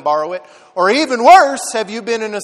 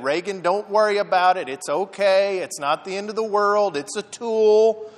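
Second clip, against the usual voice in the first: reassuring; 5 dB quieter than usual. Retold or imitated. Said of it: "he said".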